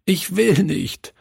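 put-on high, childlike wail; sobbing refusal. A narrator's reading. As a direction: plead against it like an upset little boy. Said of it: "schluchzte er".

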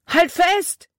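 high, loud urgent call. A narrator's reading. Jordan pulling Libby ashore calls to her to hold on. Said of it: "rief er".

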